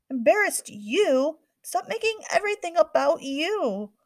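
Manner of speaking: high, loud indignant comeback; angry retort. A narrator's reading. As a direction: throw it back at her. Sisters arguing.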